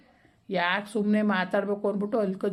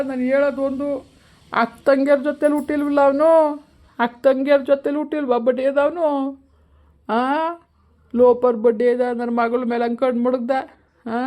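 louder, higher furious outburst at the son-in-law; angry cursing; 3 semitones higher, 6 dB louder than usual. Acted. Father cursing his daughter's husband, furious and loud. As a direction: spit the insults out in a rage.

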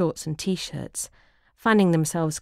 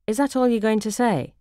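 a hint of an exasperated wife, a little higher; prompting wife; 5 semitones higher, 3 dB louder than usual. Wife prodding her dozing husband, lightly exasperated. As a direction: prod him for more, lightly exasperated. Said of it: "she prompts".

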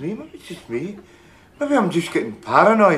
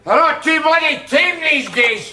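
slow emphatic rant; 8 semitones higher than usual. Acted. Ranting about police.

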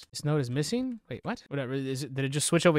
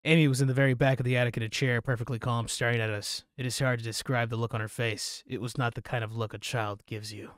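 story narration. Acted. Player reading an account of Amy's case, measured narration. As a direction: narrate the case note evenly. Reads an in-game case note.

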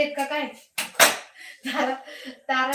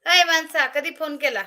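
louder, higher call; loud mock scolding; 3 semitones higher, 4 dB louder than usual. Real, not acted. Streamer playfully calls out a viewer over a missed call.

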